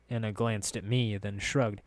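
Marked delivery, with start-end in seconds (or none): none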